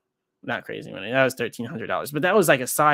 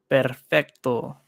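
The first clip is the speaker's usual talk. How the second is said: put-on Spanish accent; much slower than usual. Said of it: "You gotta speak some Spanish".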